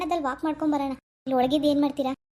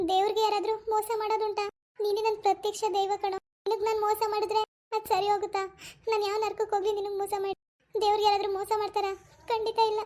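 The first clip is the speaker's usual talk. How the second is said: higher, earnest wounded plea; hurt pleading; 5 semitones higher than usual. Acted. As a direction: swear your loyalty, deeply hurt. Wife pleading at husband's feet.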